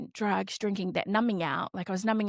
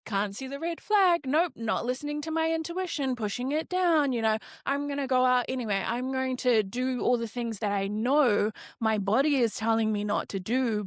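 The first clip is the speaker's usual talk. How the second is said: higher, stubborn dismissive self-talk; defiant inner voice; 4 semitones higher than usual. Retold or imitated. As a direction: wave off the warnings, cocky and stubborn. Inner voice brushing off warnings.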